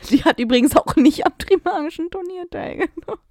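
giggling through it; high, fast and laughing. Real, not acted.

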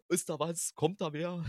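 playfully imitated nervous checking; mock scaredy-cat. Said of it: "ich bin ja der größte Schisser".

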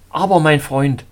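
loud, protesting call; exclamation. A narrator's reading. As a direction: exclaim it loudly to object. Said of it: "rief ich aus".

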